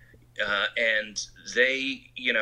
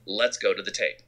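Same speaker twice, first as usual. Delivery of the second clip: doubting colleague; 2 semitones higher than usual. Retold or imitated. Colleague disputing a screening laugh, mildly acted doubt. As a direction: play the unconvinced other side of a mock argument. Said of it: "someone else might say".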